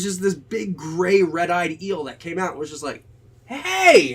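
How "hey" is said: high, loud cartoon eel shout; mock monster eel bursting out of a wreck; eel's loud hey. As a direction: shout it like a sea creature ambushing a diver. Eel lunging out.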